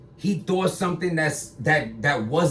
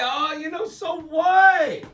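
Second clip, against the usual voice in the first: mock dismissive shout; 9 semitones higher, slower than usual. Shrugging off the footage with a dismissive shout. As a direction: toss it off like it means nothing.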